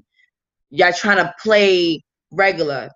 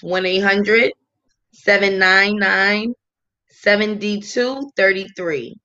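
slow, pausing between digit groups; dictating a number. Real, not acted. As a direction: give the hotline number in separate, measured chunks. Dictating hotline number to listeners.

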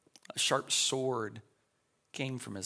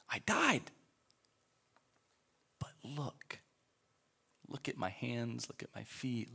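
hushed Jesus. Retold or imitated. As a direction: speak gently to a friend. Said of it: "Jesus looks at John and says".

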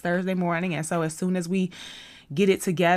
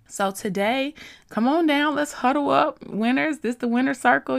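higher, louder coach-style rallying call; hype call; 8 semitones higher, 4 dB louder than usual. Acted. Host rallying listeners like a coach, loud hype. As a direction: call the team into the huddle.

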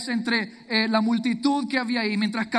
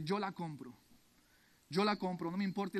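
quiet resolve; 10 dB quieter than usual. Acted. Hosea quietly telling the auction crowd he will buy her. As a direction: say it calmly, decided and unshaken.

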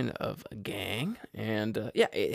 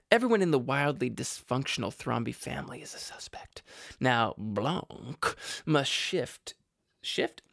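"Everyone in the wildly dysfunctional Thrombey family" read in a slow southern drawl; lightly imitated southern detective drawl. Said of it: "That's how he talks".

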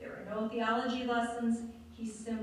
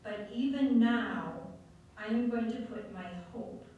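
earnest prayer. Acted. Prayer declaration.

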